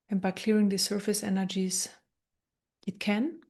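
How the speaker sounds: calm, unhurried meditation guide with long pauses; guided meditation. Acted. Meditation teacher guiding listeners through an energy transmission, calm guided meditation. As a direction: gently talk them through it, leaving space between phrases.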